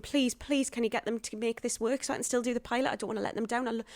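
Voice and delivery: high, urgent begging; retold pleading. Actress on phone to agent, acted-out desperate pleading. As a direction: plead your case in a high, anxious rush.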